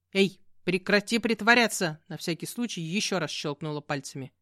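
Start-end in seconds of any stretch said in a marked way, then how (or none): 0.1-2.0 scolding. Acted. Witch scolds pretending cat.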